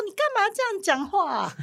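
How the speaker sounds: high-pitched imitation of an embarrassed child; mock protest. (模仿小孩高声抱怨)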